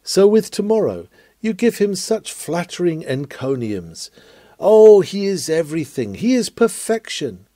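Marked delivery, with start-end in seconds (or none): 4.6-7.5 louder, higher, gushing over an idol; mock gushing praise. Preacher mocking people who flatter tomorrow, gushing. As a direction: ham up the flatterers' adoration.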